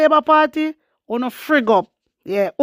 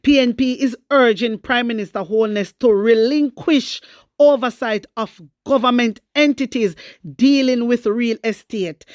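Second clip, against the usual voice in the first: measured newsreader delivery reading the report; news read. Acted. Reading the opposition's demand to viewers, news-read style.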